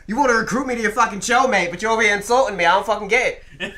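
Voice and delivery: hammed-up Irish heel; mock angry wrestler. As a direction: heckle your boss like a heel wrestler. Acted wrestler feud, Irish persona.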